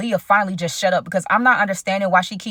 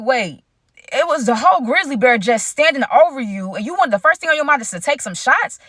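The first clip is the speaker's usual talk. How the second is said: shocked disbelief; 5 semitones higher than usual. Retold or imitated.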